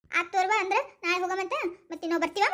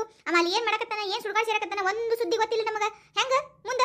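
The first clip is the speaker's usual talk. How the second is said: high-pitched, indignant scolding; exasperated family telling-off; 5 semitones higher than usual. Acted. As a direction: scold her with a raised pitch. Elder scolds wife staying away.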